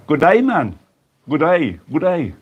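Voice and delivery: light mock Australian accent. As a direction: greet them with a playful hint of Australian. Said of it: "That's my Australian".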